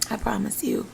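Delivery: softly whispered reassurance; host whispering a promise to pumping moms. Real, not acted.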